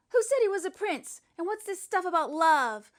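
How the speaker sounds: high, loud outrage; the boy objects to the love story; loud protest. Acted. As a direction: object loudly.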